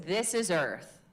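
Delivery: grounded chest voice; firm grounded delivery; earth voice. Shown as a demonstration. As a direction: let it ring in the chest. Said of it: "find that chest voice".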